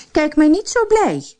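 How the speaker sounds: mock her husband's joy; spiteful jab at her husband; sneering. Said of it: "zei ze tegen haar man".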